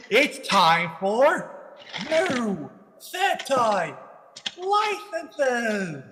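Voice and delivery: slow drawn-out announcer voice; game show announcer. Pretend.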